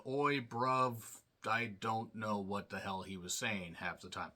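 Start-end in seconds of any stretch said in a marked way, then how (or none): 0.1-1.0 put-on British lad's greeting; mock British accent. Mocking a British wrestler's promo, mock British accent. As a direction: toss it out as a British cliche. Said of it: "British cliches and accents rolled into one".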